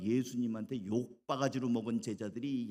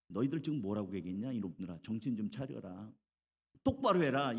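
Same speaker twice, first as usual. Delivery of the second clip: mild scolding; 2 semitones lower than usual. Acted. Jesus tells off his two disciples, mildly acted scolding. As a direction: reprimand them briskly, firmer at the end. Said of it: "예수님한테 아주 혼난 거예요".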